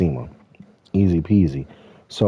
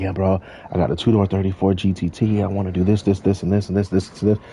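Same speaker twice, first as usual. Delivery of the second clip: mock rapid-fire wish list; imitated fast talker. Randy pitches car plans to the speaker, imitated fast talking. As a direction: imitate a friend rattling off plans. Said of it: "You are talking way too fucking fast".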